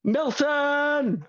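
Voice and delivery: building to a high call of the name; host introducing his good friend; showman host. Acted. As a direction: introduce him grandly. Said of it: "And go".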